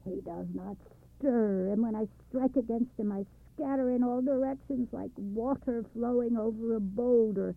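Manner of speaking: high, loud raging complaint; angry roar. Acted. Wind raging at the old man about the mountain. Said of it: "he roared at Machbel".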